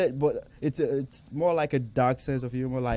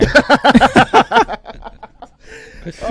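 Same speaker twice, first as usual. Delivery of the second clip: big burst of loud laughter; 11 semitones higher, 13 dB louder than usual. Real, not acted. Cracking up while telling the story, a loud laugh. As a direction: let out a loud belly laugh.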